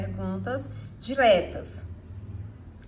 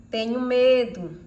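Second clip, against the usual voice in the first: fearful exclamation; 5 dB louder, slower than usual. Shown as a demonstration. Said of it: "No final de frase exclamativa".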